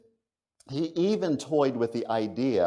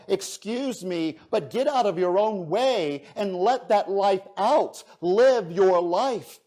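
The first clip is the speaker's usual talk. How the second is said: building urgent appeal; 3 semitones higher than usual. Acted. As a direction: build from gentle nudge to rousing call. Life's appeal builds to a climax.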